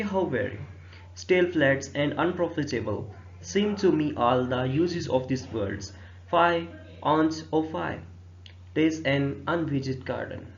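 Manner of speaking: very slow, measured reading of the verse; verse recitation. Acted. Teacher reading Hamlet's first soliloquy to students, slow recitation. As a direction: recite line by line, drawing the words out.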